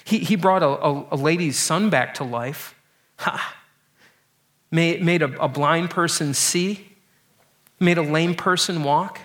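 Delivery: lightly voiced scoffer, listing miracles with a sneer; a hint of a mocking bystander; mock taunting. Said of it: "making fun of Jesus".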